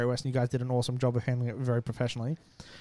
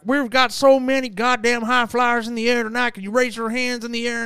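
American event announcer; 9 semitones higher, 5 dB louder than usual. Retold or imitated. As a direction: hype the crowd like an American announcer. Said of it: "the American guy who stands there".

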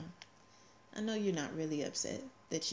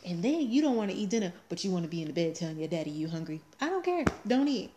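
put-on fast, louder exasperated scold at the toddler; mock scolding; 5 dB louder, faster than usual. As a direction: scold the kid like a fed-up mom. Mother scolding toddler about dinner.

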